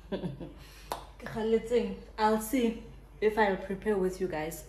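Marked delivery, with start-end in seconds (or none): 0.1-2.0 slow, chewing gum while talking. Real, not acted. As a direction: gum in the mouth, drawn out. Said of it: "excuse the gum".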